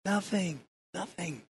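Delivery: nothing repeated, fading away like an echo; an echo dying into silence; echoing fade. Shown as a demonstration. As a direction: let the word echo and die out. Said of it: "it echoes that nothing".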